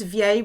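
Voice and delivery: vieille said vee-ay, French style. Shown as a demonstration. Teacher modelling French vieille. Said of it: "with one L before a vowel".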